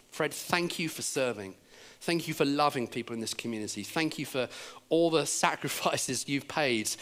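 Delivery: quiet, measured gratitude; heartfelt thanks. Retold or imitated. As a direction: thank him tenderly, item by item. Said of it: "I just started to thank him".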